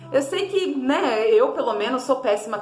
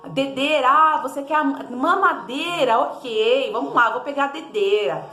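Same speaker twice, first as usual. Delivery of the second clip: put-on correcting the child; 2 semitones higher than usual. Shown as a demonstration. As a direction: model the right word patiently. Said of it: "você vai corrigir". (corrigindo a criança devagar e claro)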